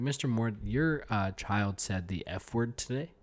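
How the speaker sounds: a weary principal asking a dad to come in; stern principal. Pretend. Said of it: "principal's gonna be like".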